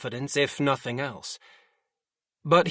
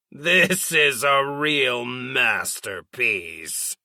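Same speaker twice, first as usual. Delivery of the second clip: slow, contemptuous scoff; 3 dB louder, slower than usual. Acted. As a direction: sneer it out with scorn. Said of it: "Jaralise scoffed".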